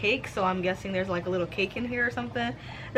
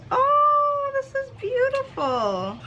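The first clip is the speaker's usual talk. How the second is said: tearful joy; slower than usual. Real, not acted. Overcome by the gift.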